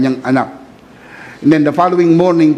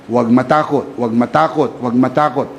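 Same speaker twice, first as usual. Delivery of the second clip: soothing repetition; 4 semitones lower than usual. Retold or imitated. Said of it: "Lagi ko po yan sinasabi".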